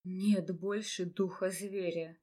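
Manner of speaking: soft, low and slow regret; quiet sorrowful reply. A narrator's reading. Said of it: "тихо произнёс Ротасий".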